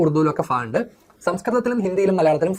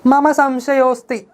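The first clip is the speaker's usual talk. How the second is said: high, very slow questioning line; nephew's doubt; 9 semitones higher, 4 dB louder, much slower than usual. Acted. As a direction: draw it out like a puzzled boy. Nephew voices his doubt. (ഉയർന്ന, പതുക്കെയുള്ള സംശയം)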